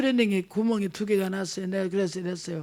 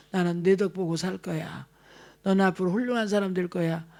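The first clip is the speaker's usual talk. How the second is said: gentle encouraging mother; 3 semitones lower than usual. Retold or imitated. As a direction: bless the child with kind words. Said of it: "말로 심어주시기를 축복합니다". (다정하게 격려하는 엄마 말투)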